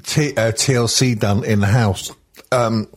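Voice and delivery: talking through a mouthful of sausage; chewing while talking, mouth full. Real, not acted. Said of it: "sorry, I've just had a mouth, oop, full of sausage".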